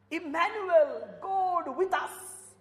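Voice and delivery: slow, tearful repeat of the same words; tearful echo; voice breaking. Acted. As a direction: let it catch in the throat.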